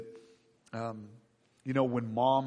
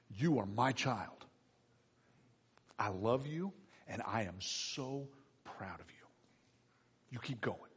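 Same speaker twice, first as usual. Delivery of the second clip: tender heavenly father; 3 semitones lower, 11 dB quieter than usual. Acted.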